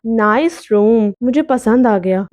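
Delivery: unhurried, mildly casual approval; relaxed ghost. Acted. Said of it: "बहुत आराम से बोला". (आराम से, हल्के इत्मीनान में)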